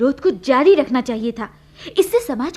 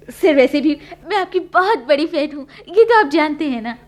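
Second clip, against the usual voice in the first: eager pleading; 4 dB louder than usual. Real, not acted. Actress begging director for role.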